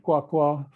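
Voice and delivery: "kwa kwa" high and level on both syllables, drawn out; slow, high, level "kwa kwa"; Lisu high level tone. Shown as a demonstration. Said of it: "the most frequent forms".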